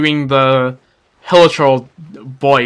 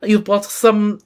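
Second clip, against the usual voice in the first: lightly put-on French accent, a little higher; attempted French accent; 4 semitones higher, slower than usual. Melusine greeting a visitor, tentative French accent. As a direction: try a French-accented character voice, haltingly. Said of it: "do a voice with a French accent".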